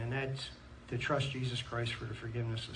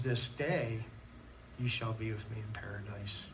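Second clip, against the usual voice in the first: whispered promise, much softer; Jesus's words; 4 semitones lower, 6 dB quieter than usual. Retold or imitated. Jesus whispers his promise to the repentant thief. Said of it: "Jesus says".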